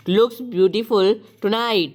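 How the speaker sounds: slow, drawn-out reading; slow dictation. Shown as a demonstration. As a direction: spell it out slowly for the class. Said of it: "teacher dictates the sentence". (धीरे-धीरे लिखवाना)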